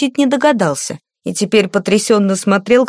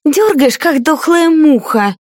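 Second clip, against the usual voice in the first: higher, contemptuous scolding; spiteful berating; 8 semitones higher, slower than usual. A narrator's reading. Lady mocks the page's weak tugging, contemptuous scolding. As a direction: sneer at the useless boy.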